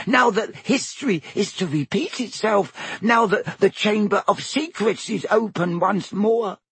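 high, eager elf squeak; house elf voice. Acted. Elf answering Harry, high squeaky voice. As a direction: pitch it up like a nervous house elf. Dobby voice.

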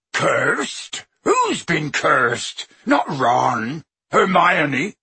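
slow, worried giant voice; a hint of a frightened gentle giant; alarmed Hagrid. Hagrid alarmed, asking questions.

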